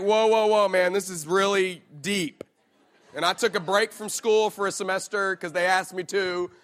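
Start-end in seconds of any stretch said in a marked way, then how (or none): 0.0-2.4 mock awe. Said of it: "Some of you were like".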